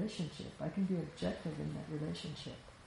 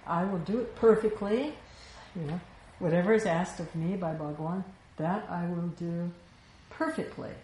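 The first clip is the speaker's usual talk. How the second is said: louder, mock-grand promise of perfection; a hammed-up self-satisfied vow; narcissistic boast; 5 dB louder than usual. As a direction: puff up like a self-important narcissist. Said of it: "he's so narcissistic".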